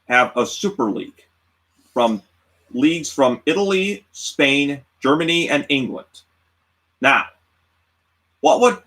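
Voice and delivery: halting put-on presenter voice with long pauses; weird voice. Moderator laying out the debate topic, weird put-on voice. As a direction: pose the topic in odd, portentous pieces. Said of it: "Why are you using a weird voice?".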